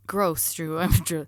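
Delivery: words pushed out on a burp. Acted. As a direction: burp while talking. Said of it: "one, two, three".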